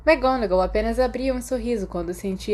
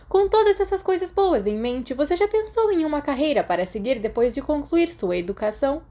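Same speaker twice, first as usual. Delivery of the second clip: much higher, louder, crisp stern headmistress tone; McGonagall voice; 8 semitones higher, 4 dB louder than usual. Acted. McGonagall praises Remus at his careers meeting, higher and louder. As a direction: read out his merits like a strict but pleased teacher.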